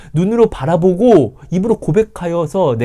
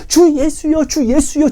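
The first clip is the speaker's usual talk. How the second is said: high, loud pleading cry to the Lord; a beggar's cry for mercy; 14 semitones higher, 4 dB louder, slower than usual. Acted. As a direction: call out desperately to Jesus. Blind man crying out to Jesus.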